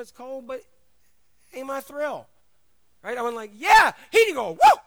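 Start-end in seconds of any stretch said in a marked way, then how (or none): 3.6-4.8 loud, high sarcastic cheer; mock enthusiasm. Salesman mocking his own dull job, loud fake cheer. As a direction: fake a thrill you don't feel.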